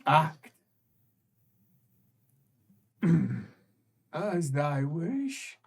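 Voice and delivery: low, hushed offer; low ominous voice. Acted. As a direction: lay out the choice in a hush. Creature offers choice.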